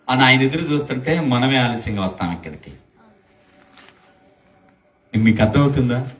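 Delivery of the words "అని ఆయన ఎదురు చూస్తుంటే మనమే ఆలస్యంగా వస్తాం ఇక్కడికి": ordinary talk, nothing marked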